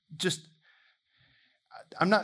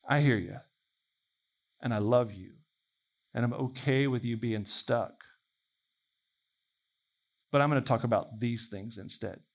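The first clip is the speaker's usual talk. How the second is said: lower, unhurried, tender answer; gentle reassurance; 4 semitones lower than usual. Acted. The Lord answering people stuck in their questions, gently reassuring.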